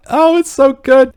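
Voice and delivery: excited. Real, not acted. Gushing over the shot.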